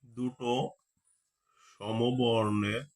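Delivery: সমবর্ণের drawn out very slowly; slow dictating pace; slow dictation. Shown as a demonstration. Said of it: "teacher dictating slowly".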